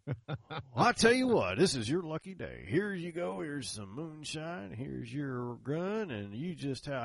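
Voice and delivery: put-on high folksy old-timer, loud then slowing; old country boy. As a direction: imitate a generous old Southern seller handing things over. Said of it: "from an old boy out there".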